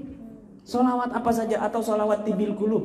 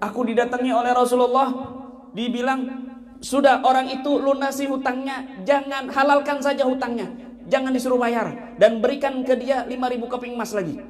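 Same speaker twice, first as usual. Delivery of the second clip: judge's voice; 6 semitones higher than usual. Acted. Judge retells the Prophet's words.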